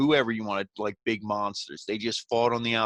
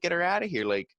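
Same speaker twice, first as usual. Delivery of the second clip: higher, mock frantic plea to the ref; lightly hammed-up confusion, pitched up; retold exasperation; 6 semitones higher than usual. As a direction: act out the baffled wrestler wanting her gone. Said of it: "He's like".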